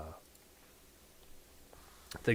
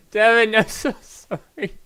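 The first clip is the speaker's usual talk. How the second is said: much higher and louder put-on apology; mock high voice; 12 semitones higher, 10 dB louder than usual. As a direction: squeak the apology out in a hammed-up character voice. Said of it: "your voice goes soft when you play Sanric".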